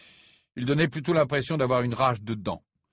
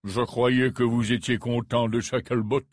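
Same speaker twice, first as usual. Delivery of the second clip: coldly; 3 dB louder than usual. Acted. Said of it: "répliqua froidement Scrimgeour".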